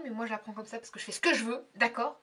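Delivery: fast, lightly mock-stern retort; put-on severity, said briskly. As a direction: play at being strict, quickly. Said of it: "Je fais sévère".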